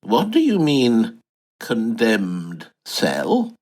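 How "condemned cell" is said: slow aghast echo. Acted.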